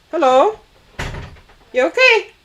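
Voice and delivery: calling out to someone behind; head turned away, calling; turning away from phone. Real, not acted. Calling to daughter at door.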